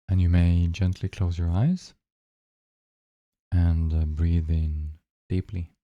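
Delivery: unhurried meditation guide with long pauses; guided meditation. Real, not acted. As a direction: guide listeners gently into the breath, leaving long silences.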